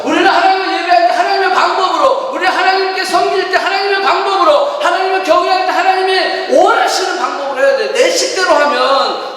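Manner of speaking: fervent sermon climax; preaching at full force. Acted. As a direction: proclaim it to the whole church. Preacher stresses sermon theme.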